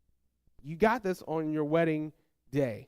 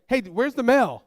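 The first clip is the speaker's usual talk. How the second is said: high, loud imitated demand; wife calling out; 5 semitones higher, 6 dB louder than usual. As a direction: holler for it as an acted wife.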